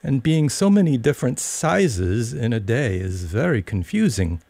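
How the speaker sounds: put-on high, polite little girl; polite and a little puzzled; polite Alice. A narrator's reading. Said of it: "Alice replied very politely".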